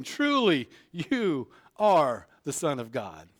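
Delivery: slow, reverent declaration; awed worship. Acted. Disciples in the boat worshiping Jesus, awestruck. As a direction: say it in hushed awe.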